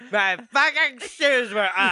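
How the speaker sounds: mock outrage. Prank victim confronting his friends, slow mock outrage. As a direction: drag out each word in comic fury.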